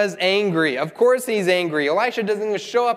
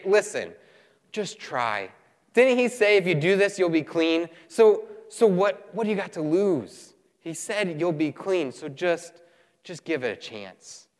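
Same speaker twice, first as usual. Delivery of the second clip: gentle persuasion. Acted. Servants talk sense into their angry master, gently persuading. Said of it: "his servants talk some sense in him".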